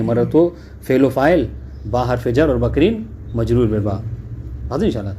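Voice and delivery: normal talking voice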